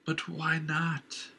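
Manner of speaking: slow, high, uncanny whine of frustration; annoyed eerie inner voice; frustrated annoyance. Acted. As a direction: press him, exasperated. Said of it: "a mixture of frustration and annoyance".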